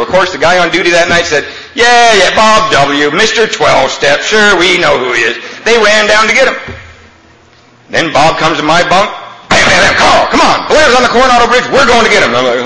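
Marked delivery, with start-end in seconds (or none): 1.7-5.4 lightly hammed-up mock from the duty sailor. Sailor on duty mocks Bob. 9.5-12.3 high, loud, urgent banging and calling; urgent wake-up. Retold or imitated. Bob wakes him urgently.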